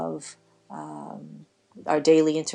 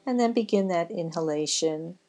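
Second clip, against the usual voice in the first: guided breathing meditation. Acted. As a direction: ease them gently through each breath, stretching the words. Leads a breathing relaxation.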